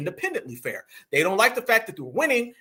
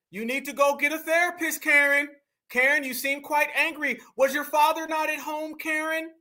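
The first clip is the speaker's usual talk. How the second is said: mock-concerned taunt; 3 semitones higher than usual. Real, not acted. Host taunting an angry woman from a clip, mock-concerned. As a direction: needle her with pretend concern.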